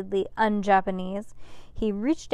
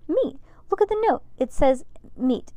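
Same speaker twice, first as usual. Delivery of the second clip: excited; 6 semitones higher, 5 dB louder than usual. A narrator's reading. Max Ernest explaining excitedly.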